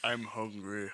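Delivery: low gravelly-free Batman impression, lightly done. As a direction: growl it like Batman. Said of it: "it's just the Batman voice".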